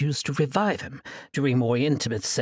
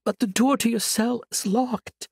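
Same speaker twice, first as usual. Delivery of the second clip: sweet, higher and innocent; angel voice; 9 semitones higher, 4 dB louder than usual. Acted. Sorceress faking an angel's voice to lure her captive, sweetly. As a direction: coax him like a gentle angel. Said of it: "projected her voice outside the chamber".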